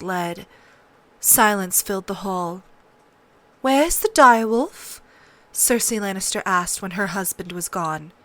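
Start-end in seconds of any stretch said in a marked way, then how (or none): 3.6-5.0 louder, higher demand; a queen taking charge; commanding queen. A narrator's reading.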